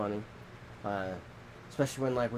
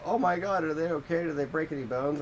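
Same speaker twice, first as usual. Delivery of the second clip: mock alarm; 5 semitones higher than usual. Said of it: "us adults go".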